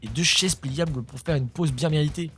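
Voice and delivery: steady news-style reading of a quirky story; article read-out. Acted. YouTuber reading an odd news article to viewers, news-read voice. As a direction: reads the piece like a news segment.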